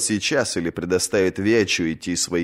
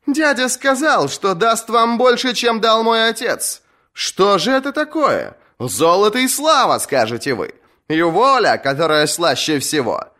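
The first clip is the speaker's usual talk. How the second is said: much higher, stirring speech; impassioned young woman; 11 semitones higher than usual. Acted. Asha speaks to the kingsmoot, high impassioned voice. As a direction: win the captains over with bitter truths.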